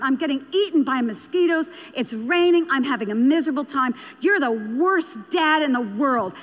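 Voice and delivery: mildly acted teenage tirade; retold angry outburst. Daughter erupting at her dad out in the woods, mock exasperated. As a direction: play a fed-up daughter venting, without really yelling. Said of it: "She erupted".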